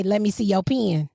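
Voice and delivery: PEN as "pee-in"; country pen. Shown as a demonstration. Host demonstrating her request to listeners, PEN as "pee-in". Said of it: "I walk up to y'all and I say".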